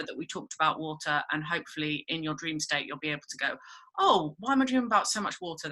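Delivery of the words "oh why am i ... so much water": higher, quick "oh!" of dawning wonder; mock realisation. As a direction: act out suddenly noticing something odd. Acting out the dreamer's sudden realisation.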